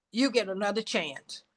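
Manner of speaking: soft, low, gentle reassurance; soft voice of God. Retold or imitated. God tells Gail softly, a gentle low promise. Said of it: "It tells Gail".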